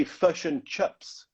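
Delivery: Kiwi vowels, "fish and chips" as "fush and chups"; drawn-out imitation of a New Zealander; slow, exaggerated New Zealand accent. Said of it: "person from New Zealand, and that they say".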